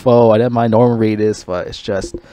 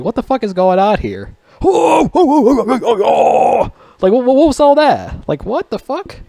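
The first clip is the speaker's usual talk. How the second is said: high, baffled what-the-fuck; retelling a shocked reaction; mock disbelief; 12 semitones higher, slower than usual. Reacting in disbelief to a bizarre movie scene. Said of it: "I'm like".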